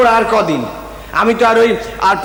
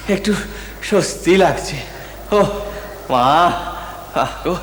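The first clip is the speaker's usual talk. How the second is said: choked with emotion; 2 semitones lower, 6 dB quieter, slower than usual. Acted. Son overcome at mother's feet.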